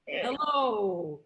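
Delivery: smiling, cheerful greeting; bright smiling hello; happy hello. Shown as a demonstration. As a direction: greet a friend you're glad to see. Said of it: "we're happy to see each other".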